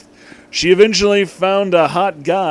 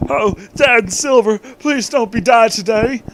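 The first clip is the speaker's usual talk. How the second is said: put-on higher, louder pleading child; silly kid voice; 8 semitones higher, 5 dB louder than usual. Vector begs his dad not to die, high pleading kid voice. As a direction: beg like a tearful little boy. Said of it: "I don't know why I did that voice".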